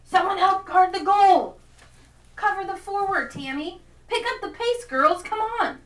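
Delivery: high, loud yelling dad on the touchline; sideline shout. Acted. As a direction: holler urgent orders at the team. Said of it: "he'd shout stuff like".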